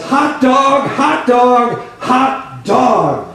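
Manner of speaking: a lighter echo of the joyful shout, fading off; retold joyful yell. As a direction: replay the cry, easing down each time. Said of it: "all he could yell out was".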